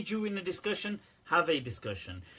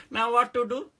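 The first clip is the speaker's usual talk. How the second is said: high, laughing mock despair; 7 semitones higher, 5 dB louder than usual. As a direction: ham up the helplessness.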